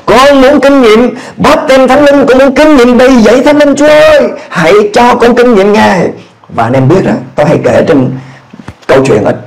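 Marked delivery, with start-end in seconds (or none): 0.1-6.1 pleading, climbing higher through the lines; kneeling alone, praying defiantly for the Spirit; fervent prayer. Retold or imitated. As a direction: beg God with rising fervor. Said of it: "tôi cầu nguyện, tôi nói".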